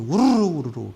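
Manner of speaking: loud imitated rush of a crowd; crowd rumble. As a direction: make the noise of people flocking together. Crowd rushing noise imitated. (몰려다니는 개미들 소리를 크게 흉내)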